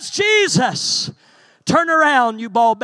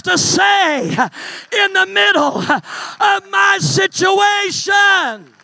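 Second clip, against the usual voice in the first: full-force preaching; 2 semitones higher than usual. Acted.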